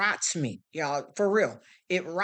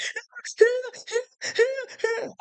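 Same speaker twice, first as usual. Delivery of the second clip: high wailing mock ugly-cry sound; a quick high mock sob-wail. Shown as a demonstration. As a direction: show them the ugly cry, hammed up. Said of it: "that ugly cry when you cry like".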